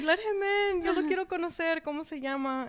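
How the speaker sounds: high, loud, eager mom wanting to meet him; imitating an excited mother. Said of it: "all excited".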